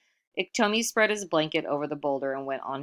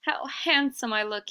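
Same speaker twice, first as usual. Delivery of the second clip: lightly voiced show-off, a bit higher; vain Iktomi; 9 semitones higher than usual. Iktomi admires his own finery, lightly voiced higher. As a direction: preen over each item.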